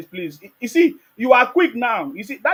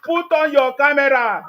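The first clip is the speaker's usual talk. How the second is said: loud, drawn-out order; insistent demand; 2 semitones higher, 5 dB louder, slower than usual. Real, not acted. Host challenging an anonymous caller to show himself, loud insistent demand. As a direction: demand it forcefully, stretching the words. Repeated demand to muted heckler.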